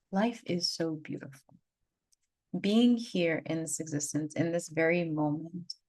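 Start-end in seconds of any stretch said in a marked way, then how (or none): 0.1-1.5 awed echo. Retold or imitated. Coming back from the Bufo trip, echoing herself in awe. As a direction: repeat it, lingering in awe. Crying and laughing after Bufo.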